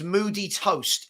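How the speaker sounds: attempted Scottish accent; slow, deliberate go at Scottish. Shown as a demonstration. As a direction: say it as a Scottish impression. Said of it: "my Scottish impression".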